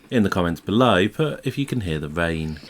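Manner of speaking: lightly put-on voice for addressing the audience; funny presenter voice. Real, not acted. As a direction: slip into a mildly silly announcer-like call for comments. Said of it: "always put a funny voice on".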